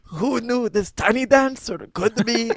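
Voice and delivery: put-on French accent. Shopkeeper astonished at a singer in French accent. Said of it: "That French sneaker store".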